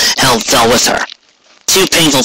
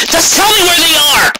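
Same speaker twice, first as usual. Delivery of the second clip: much higher, urgent tomboy voice; impatient Rainbow Dash. A narrator's reading. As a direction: push past the guard, demanding. Rainbow urgently demands directions.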